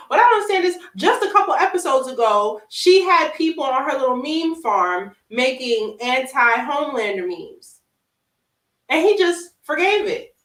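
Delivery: high, loud indignant rant; outraged disbelief. Real, not acted. Complaining to co-host about Homelander's forgiveness, high indignant rant. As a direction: vent your outrage about the show.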